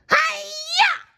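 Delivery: high shouted karate cry. A narrator's reading. Sandy karate-chopping the door with a shout. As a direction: shout it as you chop.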